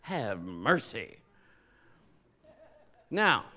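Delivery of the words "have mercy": low, slow and hushed in awe; slow awed sigh. Retold or imitated. Jacob seeing Rachel, low slow awed have mercy. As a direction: breathe it out, struck by beauty. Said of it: "He says".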